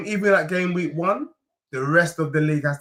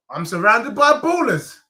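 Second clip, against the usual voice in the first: lightly put-on American accent, a bit raised; best American accent; 3 semitones higher, 3 dB louder than usual. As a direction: say it like an American, slightly hammed-up. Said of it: "In my best American accent".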